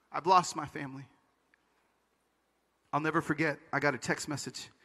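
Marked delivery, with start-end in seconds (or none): 0.1-1.1 low, soft statement of loss; subdued and sorrowful; resigned. Retold or imitated. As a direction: say it quietly, the fight gone. Resigned aftermath of the angry protest.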